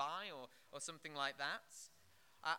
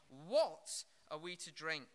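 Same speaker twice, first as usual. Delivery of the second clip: aggressive complaint; 2 semitones lower, 6 dB louder than usual. Retold or imitated. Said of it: "it's very aggressive".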